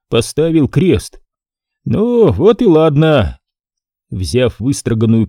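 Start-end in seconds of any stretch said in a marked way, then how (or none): 1.8-3.4 slow, pleased clerk; satisfied. Acted. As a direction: settle it with satisfaction. Scribe satisfied.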